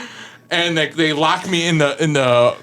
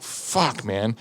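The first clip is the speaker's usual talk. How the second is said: dejected cursing; 5 semitones lower, 7 dB quieter than usual. Retold or imitated. Dejected at being in trouble.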